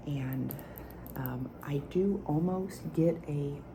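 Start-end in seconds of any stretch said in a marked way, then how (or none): 1.2-3.6 whisper with nail taps. Acted. ASMR whispered perfume review.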